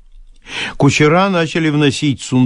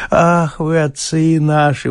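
higher gushing cry; exclaiming; 3 semitones higher, slower than usual. Acted. Bailiff exclaims to his master, gushing. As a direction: exclaim with tipsy devotion. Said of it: "воскликнул Софрон".

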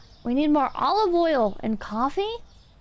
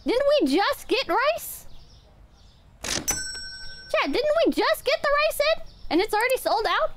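surprised; 8 semitones higher than usual. Real, not acted. Streamer surprised, asking chat.

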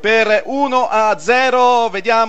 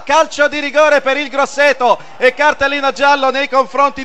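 excited play-by-play; 5 semitones higher than usual. Real, not acted. Second penalty awarded live.

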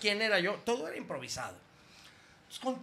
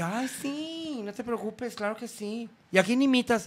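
higher camp delight; 5 semitones higher than usual. Retold or imitated. Drag performer answers the prank caller, gushing camp. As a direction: gush like an excited drag queen. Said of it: "Me dice".

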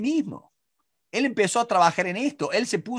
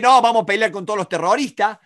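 mock hostile rallying; 3 semitones higher, 4 dB louder, faster than usual. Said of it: "si yo voy a decir".

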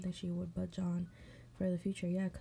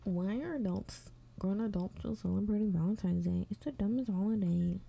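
mock pick me; 4 dB louder than usual. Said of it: "here comes this, this pick me".

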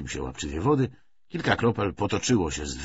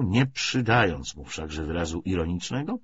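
ordinary delivery, nothing marked

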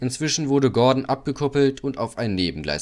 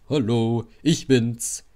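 calling out; 2 semitones higher, slower than usual. A narrator's reading. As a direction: call out a cheery hello in passing. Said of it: "Dann rief Edward". (fröhlich gerufen)

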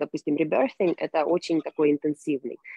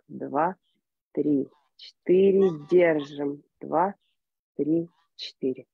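slow, guided breath counting; much slower than usual. Acted. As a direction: lead the group through each count. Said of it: "Ещё".

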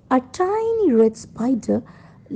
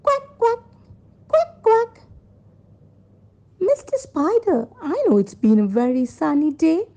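very high quacks, then a higher chatty duck; storybook duck, pitched up; 6 semitones higher than usual. Acted. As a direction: quack high, then invite the spider along. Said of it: "Then came the duck".

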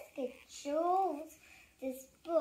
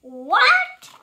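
higher, loud shocked what; 6 semitones higher, 12 dB louder than usual. Acted. Reader stunned by robot monkey line, shocked.

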